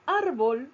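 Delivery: "Árbol" with a forceful first syllable ÁR; "Árbol", voice peaking on the opening ÁR; stress on ÁR. Shown as a demonstration. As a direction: hit the ÁR of "Árbol". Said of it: "tiene la sílaba tónica en la sílaba ar".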